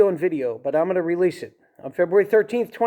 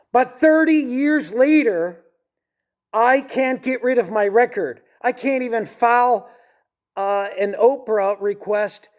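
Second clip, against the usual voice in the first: higher, slowed, emphatic complaint; frustrated outburst; 5 semitones higher, slower than usual. Real, not acted. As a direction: push out the frustration, stretching each word. Frustrated complaint about his record.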